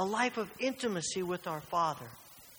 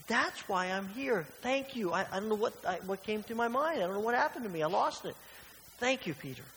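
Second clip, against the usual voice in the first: higher and louder, a hammed-up almighty king; mock triumphant Jesus; 5 semitones higher, 3 dB louder than usual. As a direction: overplay a boastful conqueror, tongue in cheek. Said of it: "Obviously, he doesn't say that".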